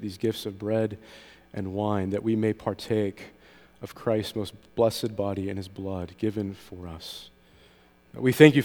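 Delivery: measured, reverent liturgical prayer; communion prayer. Real, not acted. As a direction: pray formally on the congregation's behalf, in even phrases.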